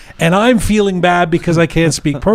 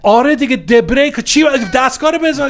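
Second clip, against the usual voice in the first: imitated screaming; 11 semitones higher, much faster than usual. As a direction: hammer the words at him in exasperation. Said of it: "screaming like that".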